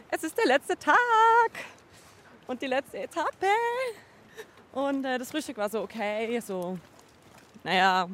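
ordinary talk, nothing marked

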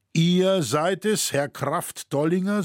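startled, relieved sigh. A narrator's reading. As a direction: breathe it out with relief. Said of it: "seufzte er".

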